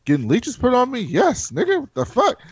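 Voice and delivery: you can't believe she asked that; incredulous Gendry. Acted. Gendry outraged by Arya's question.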